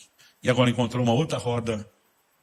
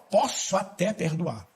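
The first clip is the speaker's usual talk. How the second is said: slow, higher, reluctant drawl; mock grudging believer; grudging concession; 5 semitones higher, much slower than usual. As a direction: give in half-heartedly.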